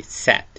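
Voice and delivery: satをアとエの中間の強めの母音ではっきり; satの母音はアとエの間で強く; satの発音実演. Shown as a demonstration. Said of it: "あとえの中間のような強めの発音". (satはアとエの中間音で明確に)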